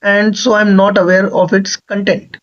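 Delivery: the sentence read out very slowly. Shown as a demonstration. Teacher reading out the last question to students, slowly. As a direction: read each word out slowly and clearly. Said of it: "कह रहा है".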